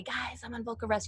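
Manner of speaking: the wrong way to talk on vocal rest, hushed; soft, hushed take. Shown as a demonstration. Coach shows students the wrong hushed way, softly. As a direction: drop the voice to a hush on vocal rest. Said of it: "you don't say".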